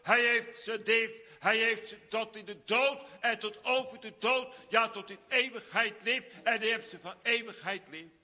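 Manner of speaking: loud, high, fervent preaching. Acted. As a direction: preach it out at full force. Preacher at full force. (vurig preken, luid en hoog)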